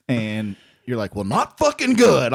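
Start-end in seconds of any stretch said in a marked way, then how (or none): 1.1-2.3 higher-pitched, exasperated retort; on ten upset. Retold or imitated. Husband answering his wife's call after a bad set, high exasperation. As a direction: snap back as if instantly at full upset. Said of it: "you're on ten".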